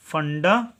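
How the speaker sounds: "फंडामेंटल" in two halves, funda, long pause, mental. Shown as a demonstration. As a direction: sound out "फंडामेंटल" while writing, halting midway. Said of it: "जोड़कर सबको लिख देता हूँ".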